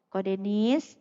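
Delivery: calm polite address; calm polite call. Retold or imitated. Debtor being phoned politely about the debt, calmly. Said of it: "nggak perlu pakai marah-marah".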